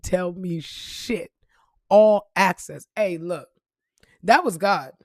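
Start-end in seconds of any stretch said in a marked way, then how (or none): 1.9-2.9 slow whisper "All access.". Real, not acted. Relishing the pass for viewers, whispered. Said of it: "Listen to that".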